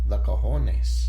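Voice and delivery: put-on slow, low Spanish-accented "cojones" with a rolled Spanish h; Spanish waiter accent. Spanish waiter serves Johnny.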